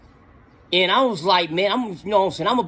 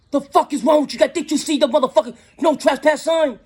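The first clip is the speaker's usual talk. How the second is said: imitating a furious landowner; 8 semitones higher than usual. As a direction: play his rage, then laugh at it. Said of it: "he came with attitude".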